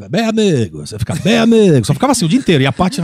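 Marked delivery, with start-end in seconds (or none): 0.1-1.9 a hint of the Galvão Bueno sportscaster voice, louder; light sportscaster catchphrase; Galvão Bueno impression. Imitating the TV announcer for his wife at home. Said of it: "O Galvão Bueno".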